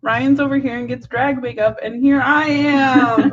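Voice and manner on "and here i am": slow, whiny fake sob; mock crying. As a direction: pretend to cry over it. Jealous of Ryan's drag makeup.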